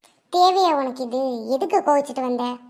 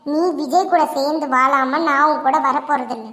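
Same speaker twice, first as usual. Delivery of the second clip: firm angry refusal; 4 dB louder than usual. Acted. Sister-in-law firmly refuses, angry.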